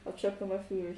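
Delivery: talking with a stuffed mouth; mouth full. Real, not acted. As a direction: speak through a mouthful. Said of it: "stuffed mouth eat, talking as well".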